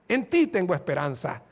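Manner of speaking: acted prayer, calming after the outcry; tender trust. Sinner turns to the Lord in hope.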